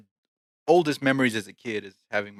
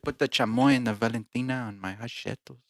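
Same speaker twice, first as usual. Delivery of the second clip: playful put-on Mexican accent; lightly hammed Mexican accent; 2 semitones higher than usual. Asking a shopkeeper for hot sauce, playful Mexican accent. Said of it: "We got different accents now".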